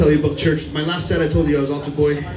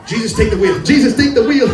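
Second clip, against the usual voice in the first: building, louder and higher cry to Jesus; hammed-up plea; mock cry out; 8 semitones higher, 7 dB louder than usual. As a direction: call out to Jesus, more desperate the second time. Drunk priest driving, crying out.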